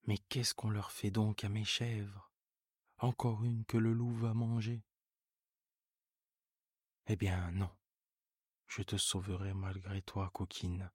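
decide firmly to lock her in; exasperated old farmer. Acted. Seguin exasperated, locks goat up.

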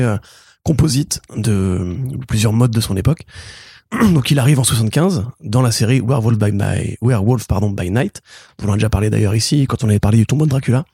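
rough, worn-out voice; hoarse voice. Real, not acted. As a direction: speak through a sore throat. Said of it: "je sais que j'ai une voix pourrie".

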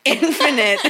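Infinite said loud and laughing; stress on Infinite. Shown as a demonstration. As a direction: punch Infinite, singular, with a laugh.

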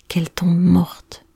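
slow whispered curse; hissed wish. Acted. Jealous girl's murderous thought.

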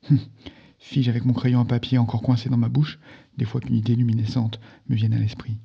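steady storyteller reading a novel aloud; story narration. A narrator's reading. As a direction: tell the story clearly, drawing the listener in.

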